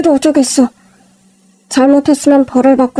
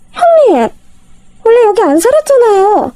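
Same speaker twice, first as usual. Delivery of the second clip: higher, astonished sister-in-law; surprised sister-in-law; 7 semitones higher than usual. Acted. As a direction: gape at the fancy apartment.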